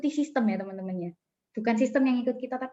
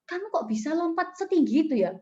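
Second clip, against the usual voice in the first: mildly amazed, higher-pitched question; retold puzzlement; 5 semitones higher than usual. Grasshopper asking friend about the high jump, mild amazement. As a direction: lightly act out wondering how it's possible. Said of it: "saya heran gitu".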